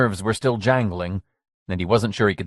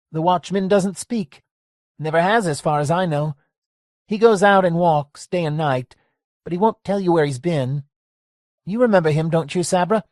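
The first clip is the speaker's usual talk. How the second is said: lightly voiced old barkeep, wary; a hint of a cagey old man; old bar owner voice; 9 semitones higher than usual. Lester warns Gracie about a mean guy, wary.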